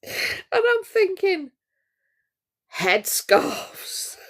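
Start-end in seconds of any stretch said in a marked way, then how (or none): 2.8-4.2 losing it completely mid-sentence; real crying laughter; laughing fit. Real, not acted. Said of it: "do you know why I'm laughing".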